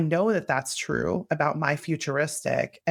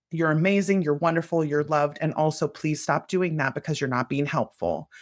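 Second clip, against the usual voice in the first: kind firm parent. Shown as a demonstration. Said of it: "That is the parental voice that we use".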